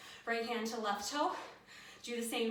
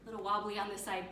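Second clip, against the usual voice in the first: out of breath. Real, not acted. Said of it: "I still haven't caught my breath".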